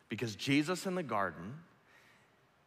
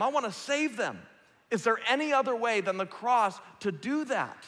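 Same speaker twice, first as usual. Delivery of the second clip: urgent, raised pleading prayer; pleading Jesus; 9 semitones higher, 6 dB louder than usual. Acted. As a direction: beg the Father for another way. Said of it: "And he's going".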